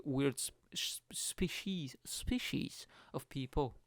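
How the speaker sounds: slow, hushed whisper. Real, not acted. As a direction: breathe the words out slowly.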